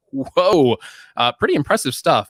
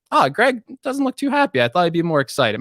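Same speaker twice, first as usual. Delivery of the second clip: imitating a viewer; 4 semitones higher than usual. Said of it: "I can get how that's like".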